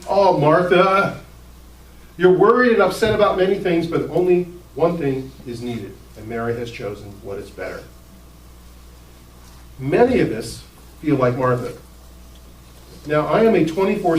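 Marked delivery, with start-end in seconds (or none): 0.1-7.8 sarcastic. Retold or imitated. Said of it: "sarcastic stuff in his voice".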